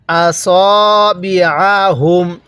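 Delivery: slow, drawn-out recitation; model recitation. Shown as a demonstration. Teacher showing how to read, slow recitation. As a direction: stretch the long vowels syllable by syllable. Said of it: "কিভাবে পড়ব".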